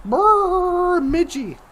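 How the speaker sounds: slow, drawn-out put-on voice of a man shivering from cold; mock shivering old chief, slowly. Imitating Chief Bemidji rattling from the cold, slow put-on voice. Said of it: "that he would just rattle".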